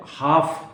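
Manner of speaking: हाफ with no L before the F; silent L. Shown as a demonstration. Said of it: "एल नहीं बोला जाएगा".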